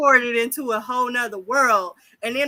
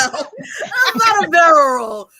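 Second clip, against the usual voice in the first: slow, high, loud protest through laughter; laughing protest; 7 semitones higher, 6 dB louder, much slower than usual. Real, not acted. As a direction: laugh it out in denial.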